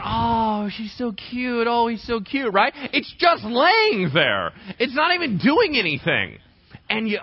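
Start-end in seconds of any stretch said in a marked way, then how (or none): 0.0-2.5 put-on high cooing over a sleeping baby. Parent gazing at sleeping baby, cooing. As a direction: melt over the cute baby, pitch up. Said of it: "looking at the baby and going".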